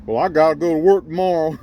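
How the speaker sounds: high, whiny mock worker; mocking excuse. Ranting vlogger mimics viewers' lame excuse.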